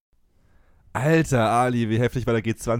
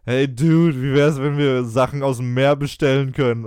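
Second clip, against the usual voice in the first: stoned dude; 3 semitones higher, 6 dB louder, slower than usual. Retold or imitated. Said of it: "und der eine so".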